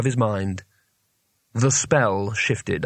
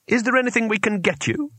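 high, anxious offer; 10 semitones higher than usual. A narrator's reading. Two Flower to the trapped wizards, anxious. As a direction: offer help in a raised, worried pitch. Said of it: "said Two Flower anxiously".

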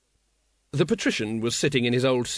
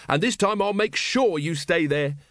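gloating; 5 semitones higher than usual. Acted. Wonse threatens the patrician.

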